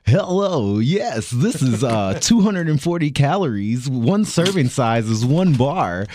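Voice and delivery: a hint of a bratty cartoon boy; Bart voice. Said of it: "Do it in your Bart voice".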